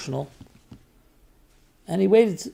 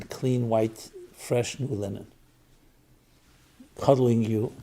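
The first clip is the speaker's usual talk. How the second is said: tender mother. Retold or imitated. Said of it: "he continues to speak in this tone".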